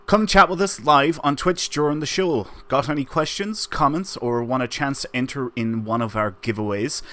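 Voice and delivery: upbeat scripted ad read; promo read. Acted. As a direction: sell it like a promo.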